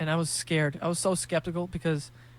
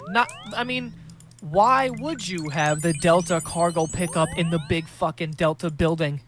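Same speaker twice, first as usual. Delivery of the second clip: exasperated retort; 6 dB louder than usual. Retold or imitated. Arguing with airport guy.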